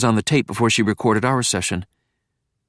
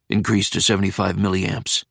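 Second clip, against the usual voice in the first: deep voice; 3 semitones lower than usual. Acted. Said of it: "deep voice said".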